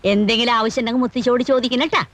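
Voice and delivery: butter him up gently, unhurried; sugary sweet. Acted. Grandmother turns sweet to tenant.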